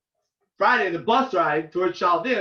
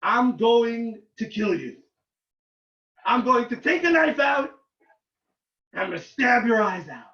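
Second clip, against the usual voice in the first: put-on slow threat in an Israeli accent. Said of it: "I said in an Israeli accent".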